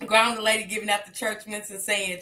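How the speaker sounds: ordinary talk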